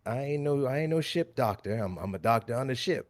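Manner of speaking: lightly put-on folksy voice; rough in-character doctor. Doctor correcting the sailor in a rough voice.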